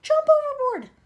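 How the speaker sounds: high, loud yell; panicked shout. Acted. Someone on the peach shouting to jump overboard. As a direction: bellow the order to jump.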